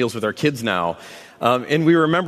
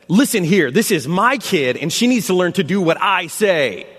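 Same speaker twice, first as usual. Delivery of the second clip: retold stern outburst; 3 semitones higher than usual. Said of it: "I'm not proud of it".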